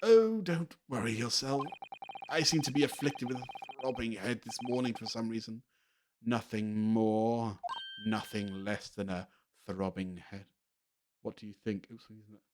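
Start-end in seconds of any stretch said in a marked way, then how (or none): 0.0-10.4 afflicted theatrical detective. Acted. Detective reassuring pupil about throbbing head, slow and pained. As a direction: start grandly, fade under a headache. Plays Sholmes with headache.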